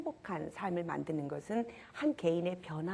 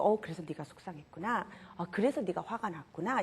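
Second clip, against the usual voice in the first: put-on empathizing with child. Shown as a demonstration. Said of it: "이렇게 공감만 해줘도".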